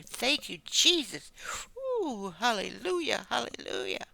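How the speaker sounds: high, rising cries of hallelujah; ecstatic praise. Real, not acted. Preacher overcome by the Lord's presence, crying out in high praise. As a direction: let the spirit lift your voice up high.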